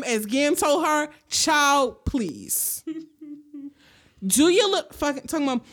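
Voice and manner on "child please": Gam's dismissal. Retold or imitated. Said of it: "As in the words of Gam".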